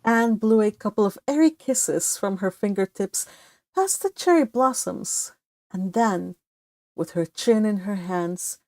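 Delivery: gentle read-aloud narration, slowing at the end; story narration. Acted. Book club host reading the chapter aloud, storybook narration. Reads novel passage aloud.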